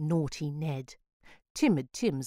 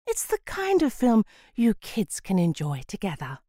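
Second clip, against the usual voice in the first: patient mum; 4 semitones higher, 3 dB louder than usual. Acted. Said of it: "in her best perfectly patient voice".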